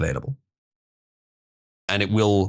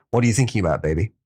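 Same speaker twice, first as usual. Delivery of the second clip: pillow talk; 3 semitones lower, much faster than usual. Acted. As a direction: ask it like a cheesy boyfriend in bed. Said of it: "let's voice this interaction".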